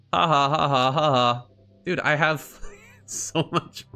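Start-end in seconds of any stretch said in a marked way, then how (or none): 0.1-1.5 taunting fake ha ha ha, imitating the opponent; mock laugh. Streamer mocks the opponent laughing at him, fake taunting laugh. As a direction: parrot his laughter back at him, mocking. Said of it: "look at him laughing at me".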